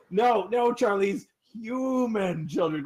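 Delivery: insistent guard. Acted. Guard presses Charlize about the human children. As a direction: lean on the words human children. Guard corrects his buddy.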